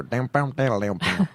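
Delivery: rising mock white-accent twang. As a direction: parody how white accents sound to him. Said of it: "every black person just hear".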